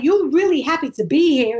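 put-on New York character voice; New York accent. Street performer ribbing his Dutch volunteer, New York accent. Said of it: "I was doing this, uh, New York character".

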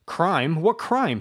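high, loud furious retort; outraged, rising cry; sudden fury. Acted. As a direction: spit the word back in rage. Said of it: "he cried in sudden fury".

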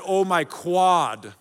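put-on slow, drawn-out "Oh, my quad" like a sore teen; mock groan.

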